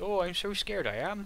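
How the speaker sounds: hammed-up put-on fright. Voicing a guardsman newly aboard a space cruiser: put-on terrified voice. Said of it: "You can hear it in his voice".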